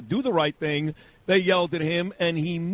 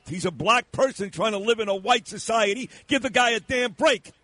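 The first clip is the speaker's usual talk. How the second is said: mock pleading; 4 semitones higher than usual.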